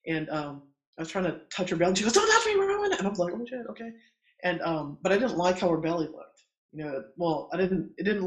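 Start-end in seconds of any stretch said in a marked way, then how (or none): 2.1-2.9 high-pitched, louder mock yell; retold sharp outburst. Labouring client to her doula in the truck, retold sharp outburst. 3.3-3.9 softer, higher aside; retold chastened reply. Doula backing off from her snapping client, chastened. Doula backs off after being yelled at.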